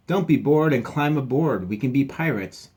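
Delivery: rally your friend to play pirates; eager pirate pup. Acted.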